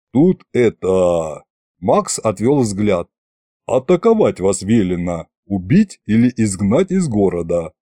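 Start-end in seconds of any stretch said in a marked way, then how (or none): 0.1-1.4 low, slow, reluctant mumble-start; awkward hesitation. Acted. Officer looks away before revealing orders, awkward hesitation. 3.7-7.7 low, subdued bad news; reluctant admission. Officer admits he must attack the visitors, reluctant low voice.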